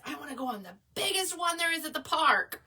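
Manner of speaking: lightly voiced kid begging for the big ride. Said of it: "Gabriel says".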